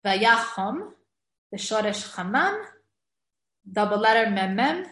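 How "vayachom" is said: vayachom said with a clear short o sound; kamatz katan. Shown as a demonstration. Teacher showing the right vowel in vayachom. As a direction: say vayachom with an o, not an a. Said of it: "you will get a kamatz katan".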